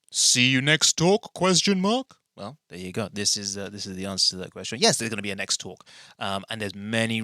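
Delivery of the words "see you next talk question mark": slow, higher, teasing sing-song; quoting his sign-off. Retold or imitated. Recalling how he ended the last talk. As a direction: drawl the old sign-off playfully up high. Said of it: "repeating his last sign-off".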